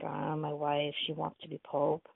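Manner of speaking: mildly sheepish admission; a touch of embarrassment in a retold quote; embarrassed. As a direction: own up with reluctance. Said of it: "really embarrassed".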